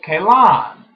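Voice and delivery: exasperated repeat. Retold or imitated. Second time having to give name.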